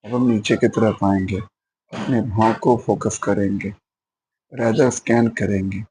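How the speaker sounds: unhurried body-scan guidance with pauses; measured meditation instructor, phrase by phrase; guided meditation. Acted. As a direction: lead listeners step by step through a body scan. Leads body-scan meditation practice.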